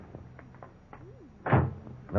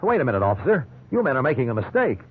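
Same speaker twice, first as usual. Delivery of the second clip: urgent pleading; 5 semitones higher than usual. Acted. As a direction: press the officer, worried and higher. Suspect pleads with officers.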